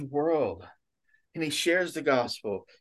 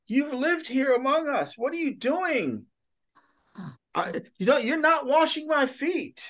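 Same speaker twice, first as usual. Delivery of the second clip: higher, pleading disbelief; incredulous; 9 semitones higher than usual. Retold or imitated. Peter protesting as Jesus kneels to wash his feet, incredulous. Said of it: "he's almost incredulous".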